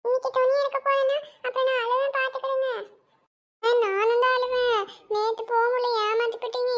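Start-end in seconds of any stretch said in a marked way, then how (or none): 0.0-2.7 put-on sulky child. Child threatens to cry. 3.6-4.8 put-on whiny crying child. Child whines she will cry.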